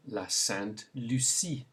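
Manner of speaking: "la Sainte Lucie" in French, s sound in Lucie; French pronunciation. Shown as a demonstration. Teacher gives learners a country to repeat, French pronunciation. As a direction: model "la Sainte Lucie" with French u and final see. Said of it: "Say it".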